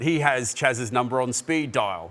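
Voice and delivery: slow, attempted English accent. Presenter quoting a team owner at a press conference, English accent. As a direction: put on your best English accent, drawn out. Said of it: "do my best English, English accent".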